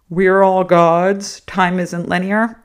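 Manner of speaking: slow, drawn-out mockery of a guru; sarcastically quoting the enlightened; mocking spiritual slogans. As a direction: parrot a lofty slogan, stretched out.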